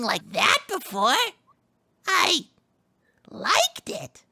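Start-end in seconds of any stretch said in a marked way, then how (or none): 2.1-4.2 whispered. Acted. Shy confession in role.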